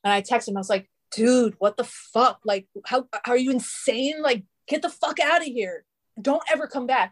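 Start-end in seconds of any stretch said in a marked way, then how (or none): 1.1-7.1 imitating an angry text, higher and building; a touch of mock fury, telling him off; half-hearted retold telling-off, rising in pitch; retold anger.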